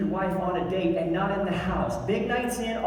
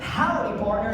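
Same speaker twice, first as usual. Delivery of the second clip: cowboy howdy; 4 semitones higher than usual. Shown as a demonstration. Teaching the crowd their cowboy greeting, lightly voiced. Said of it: "walk up to them and go".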